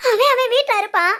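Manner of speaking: tearful, stumbling repeat; crying. Acted. Woman insists Siddharth is at his home, crying. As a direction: sob through the answer. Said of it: "ஏண்டி அழுகுற?".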